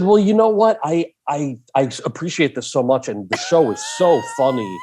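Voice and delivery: high-pitched opening, gushing mock praise; buttering him up. Actor softening up the director, buttering him up. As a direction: flatter him before asking a favor. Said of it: "I buttered him up".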